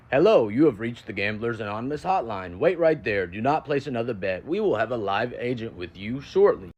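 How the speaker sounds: lightly imitated recorded hotline greeting; measured phone-menu delivery, slowing at the end; automated hotline voice. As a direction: do a hint of an automated answering message. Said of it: "I hear an automated voice go".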